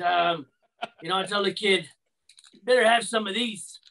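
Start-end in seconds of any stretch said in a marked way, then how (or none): 2.6-3.8 put-on lightly gruff old veteran giving advice; a hint of a grizzled old-timer. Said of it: "I need to have an old grizzled veteran voice".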